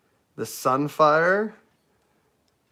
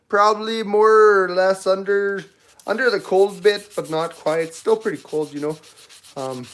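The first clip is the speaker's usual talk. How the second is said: hammed-up Canadian accent. Streamer introduces themselves as from Canada, hammed-up Canadian accent. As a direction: lay on a folksy Canadian accent. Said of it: "You just have a Canadian accent anyway".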